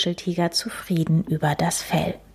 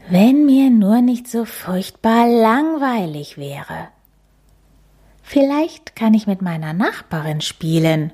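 put-on whiny child; 4 semitones higher, 5 dB louder than usual. Bored cub complains.

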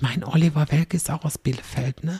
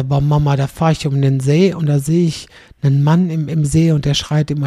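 louder, excited son telling mum a story; retold loud joke; 6 dB louder than usual. Son retelling a joke to his mother, loud and excited. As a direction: belt it out like a kid bursting with news.

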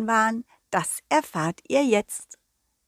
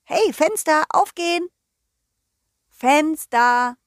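bossy call; 6 semitones higher, 4 dB louder, slower than usual. Acted. Commanding stuck window.

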